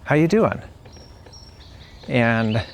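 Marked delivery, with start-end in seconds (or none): 0.0-0.6 sincere, serious "How you doing"; mean it; asked with honest concern. Shown as a demonstration. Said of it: "And it can also be serious".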